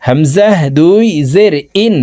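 "ইন" short, closing quickly on N; quick downward tanween. Shown as a demonstration. Teacher demonstrates tanween to viewers, quick downward nunation. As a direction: cut "ইন" straight to the nasal N. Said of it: "নিচের দিকে ধাবিত করে দ্রুতভাবে".

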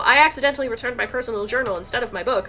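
loud dismay speeding up and climbing; hammed-up panicked realization; mock distress. Reads distressed journal writer.

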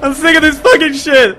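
loud high angry shouts; furious yelling. Real, not acted. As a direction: yell in frustration. Angry scared outburst.

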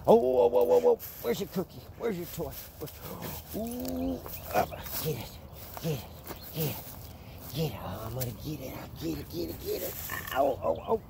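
high excited coaxing to the pup; playing with the dog. Real, not acted. Teasing the puppy over a toy, high and playful.

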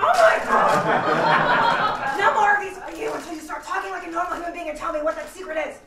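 exasperated. Acted. Exasperated at whisperer.

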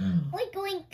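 loud mock piggy oinks. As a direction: oink like a pig. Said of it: "oink like a pig".

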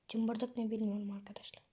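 whispered aside. Real, not acted. Aside to viewers.

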